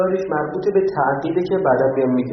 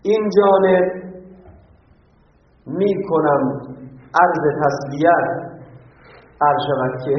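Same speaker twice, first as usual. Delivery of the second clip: stilted formal phrasing with odd word order; mock formal speech; slower than usual. Shown as a demonstration. Teacher mimicking awkward formal condolence speech, mock solemn. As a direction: recite like a clumsy official condolence. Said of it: "این طبق قانون مشهور نیست".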